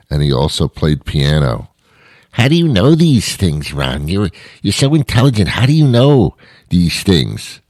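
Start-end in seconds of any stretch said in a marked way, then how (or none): 2.3-7.6 put-on higher, airheaded young voice asking Ron; mock millennial. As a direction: play a clueless youngster quizzing the host. Fawning millennial voice, then "please stop it.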